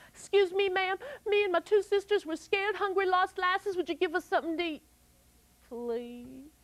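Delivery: put-on high, soft pleading girl voice; little girl asking for food, fading away; pleading girl Molly. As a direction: beg politely and sweetly.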